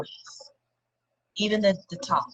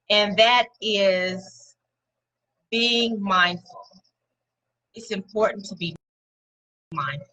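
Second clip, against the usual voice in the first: each word laid down slowly; slow it right down to land the point; unhurried, weighty delivery; slow and deliberate; slower than usual. Real, not acted.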